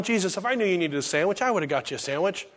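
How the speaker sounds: quick, soft, offhand excuse; mock excuse. The goats excuse themselves to Jesus, quick and offhand. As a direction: toss off the excuse quickly and quietly.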